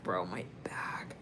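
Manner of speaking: slow, hushed whisper; pained whisper. Real, not acted. Reader feeling the client's back strain, whispered complaint. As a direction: whisper it slowly, nursing a sore back. Reacting to felt back pain.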